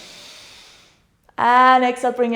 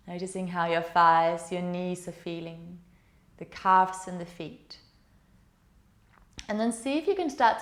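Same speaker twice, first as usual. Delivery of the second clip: calm, steady meditation voice; guided meditation; 3 semitones lower than usual. Acted. Yoga teacher guiding students through the body, soothing meditation. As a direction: guide the class gently inward.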